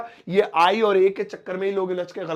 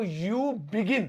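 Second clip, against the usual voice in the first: slow dictation; 2 semitones higher, much slower than usual. Shown as a demonstration. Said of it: "तो कैसे बोलेंगे?".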